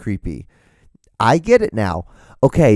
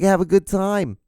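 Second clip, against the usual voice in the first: mock radio host; 9 semitones higher than usual.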